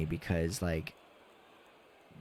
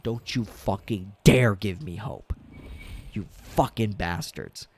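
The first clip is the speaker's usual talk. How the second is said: retold scream; 3 dB louder than usual. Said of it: "I got up and I screamed".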